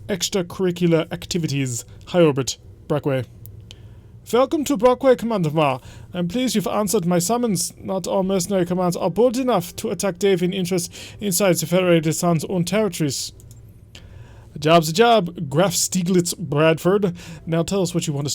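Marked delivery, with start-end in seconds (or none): 4.3-13.3 a hammed-up German accent, stiff and formal; bad German accent. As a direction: read the noble's summons in a bad German accent. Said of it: "just explaining the bad German accent".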